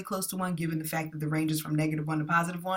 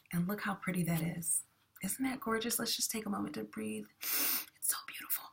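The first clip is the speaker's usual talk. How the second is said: softer and softer, dropping to a whisper; hushed awe; 2 semitones higher, 8 dB quieter than usual. Pretend. Teacher marveling at best-fit line for students, hushed mock reverence. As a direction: admire the line like a sacred object.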